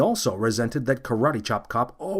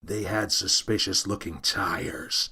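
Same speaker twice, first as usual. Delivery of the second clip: low, slow growl; 4 semitones lower, 4 dB quieter, slower than usual. Acted. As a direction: growl it like a tough guy. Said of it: "growled Karate Chop Cop".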